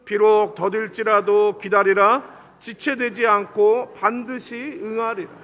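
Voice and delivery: slow, measured scripture reading; scripture recitation. Real, not acted. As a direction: lead the congregation in reading the verse, slowly. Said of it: "우리 같이 한번 읽겠습니다".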